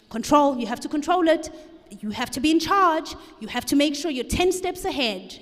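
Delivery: lightly acted controlling voice; insistent inner voice. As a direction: urge yourself to take charge. Inner voice of control takes over.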